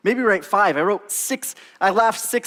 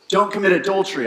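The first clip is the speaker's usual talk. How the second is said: Don't pushed a little higher and louder; emphatic command; 4 semitones higher, 4 dB louder, faster than usual. Shown as a demonstration. Preacher quotes a commandment to the congregation, firmly. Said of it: "I'll say it again".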